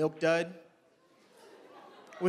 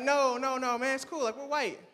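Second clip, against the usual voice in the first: mock insistent white friend; 7 semitones higher, 3 dB louder than usual. Friends insisting, voiced higher.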